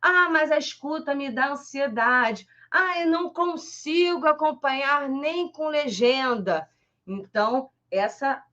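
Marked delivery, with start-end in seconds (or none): 0.0-6.7 lightly voiced student complaint, pitched up; a hint of a worried student, higher pitch; complaining learner. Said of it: "pra gente que fala assim".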